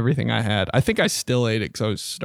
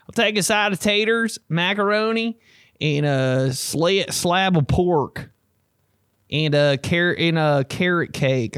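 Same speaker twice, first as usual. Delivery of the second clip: higher, slow, drawn-out order; customer ordering; 6 semitones higher, slower than usual. Retold or imitated. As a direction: read the menu slowly, dragging. Ordering food at counter.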